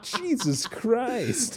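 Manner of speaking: drawn-out laugh. Real, not acted.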